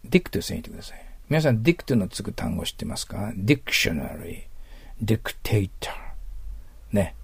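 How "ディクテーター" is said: whispered example. Shown as a demonstration. Teacher lists example words.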